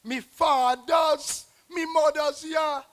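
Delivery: loud, drawn-out Creole exclamation; mock exclamation shout. Poet acting out a Creole exclamation as a loud shout. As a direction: shout it like a shocked neighbour. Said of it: "we would shout".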